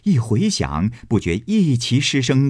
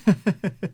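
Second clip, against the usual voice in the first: Xifeng's laugh; 9 semitones higher than usual. Acted. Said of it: "凤姐儿笑道".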